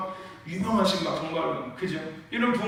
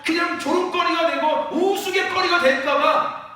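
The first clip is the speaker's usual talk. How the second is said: builds from plain to a loud, higher shout; rising fearful plea; 6 semitones higher, 4 dB louder than usual. Acted. Preacher voicing the congregation's fear, building to a shout. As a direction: voices our fear, climbing to a cry.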